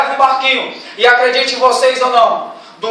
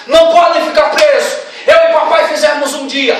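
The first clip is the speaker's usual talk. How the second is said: hint of an earnest Jesus. Jesus voiced pleading.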